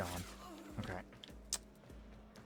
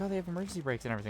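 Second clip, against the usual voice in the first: much higher, fast sing-song mockery; mock naive voice; 10 semitones higher, much faster than usual. Gamer mocking people who trust elevators, high fast mock voice. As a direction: parody a clueless optimist.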